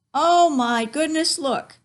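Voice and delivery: high, loud, slow amazed gasp; delighted. Real, not acted. Reader shows children the map, delighted.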